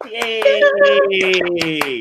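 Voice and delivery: a big bright cheer to open the show; loud cheer. Real, not acted. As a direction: shout out yay like a hype host. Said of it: "See, I told you I'm loud".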